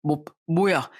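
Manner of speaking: stammering in shock. Acted. Husband reading the contract, shocked. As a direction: caught completely off guard. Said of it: "아주 기겁을 하더라고요".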